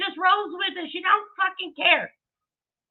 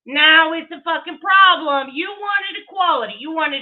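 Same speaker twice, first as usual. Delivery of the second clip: emphatic rant; 5 dB louder than usual. Real, not acted. Ranting at critics.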